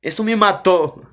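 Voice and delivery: ordinary delivery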